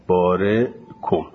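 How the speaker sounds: بارکم slow with the vowel barely heard; hidden vowel. Shown as a demonstration. (بارکم آهسته با حرکت پنهان)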